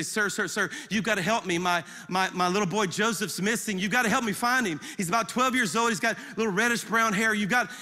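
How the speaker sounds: retold urgent plea, words tumbling out; pressing, insistent father seeking help; frantic plea. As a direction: beg for help in a hurry, as retold. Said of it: "I frantically go up to him and say".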